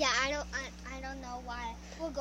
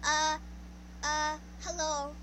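stutter; slower than usual. Retold or imitated. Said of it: "he used to be like".

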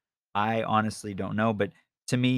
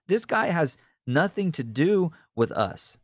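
dismissive; 7 semitones higher than usual. Retold or imitated. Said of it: "So he's saying".

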